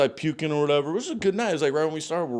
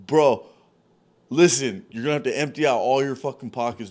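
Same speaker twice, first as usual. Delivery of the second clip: loud, firm threat; stern demand; 4 dB louder than usual. Retold or imitated. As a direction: lay down the law. Confronting the kid.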